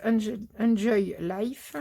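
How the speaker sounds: English words in a French accent. Real, not acted. Haul host reading an English label aloud, French accent. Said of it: "Excusez-moi pour mon accent".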